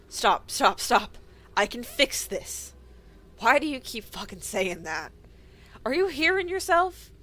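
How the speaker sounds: loud, desperate pleading shout; frantic shouting. Acted. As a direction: yell to stop him. Frantic argument over crisis.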